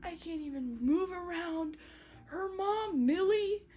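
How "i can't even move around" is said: small, high, soft self-pity; mock misery; miserable. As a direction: imitate someone miserable, softly and high. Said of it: "She feels miserable".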